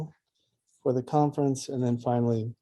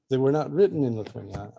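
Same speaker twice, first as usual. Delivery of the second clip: WRITTEN lifted in pitch above the rest; stress on WRITTEN; faster than usual. Real, not acted. Host clarifying for the audience about the translations, emphasis on WRITTEN. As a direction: put the weight on "written". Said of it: "I just want to emphasize".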